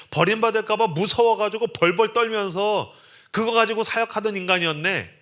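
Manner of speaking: high, loud sneering taunt; mock him as a weakling; mocking jeer. Imagined church members jeering at the weak pastor. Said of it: "라는 이야기를 들을 줄 알았어요".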